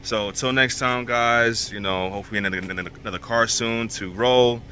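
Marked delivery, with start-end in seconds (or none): 1.7-4.6 stumbling, repeating the word; tripping over the words; stuttering. Real, not acted. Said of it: "I don't know why I'm stuttering so much".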